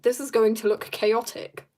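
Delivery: playful mock British accent. Shown as a demonstration. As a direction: put on a posh-sounding British accent for fun. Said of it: "I say in a very, very British accent".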